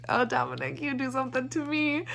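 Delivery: hammed-up lovestruck sigh to Dominic; mock swooning. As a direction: play it as a teasing, swooning fan. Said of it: "I was kinda like".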